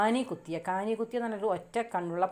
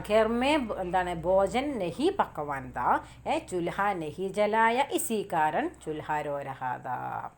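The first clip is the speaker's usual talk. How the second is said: slow recitation; much slower than usual. Shown as a demonstration. Reciting Hindi answer line slowly.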